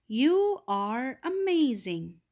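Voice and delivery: stretched out, warmly emphatic exclamation; slow exclaimed example. Shown as a demonstration. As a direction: draw it out with wonder. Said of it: "Here is an example".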